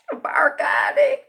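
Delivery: a high, breathy cried greeting; high cry. Real, not acted. Second greeting, higher still.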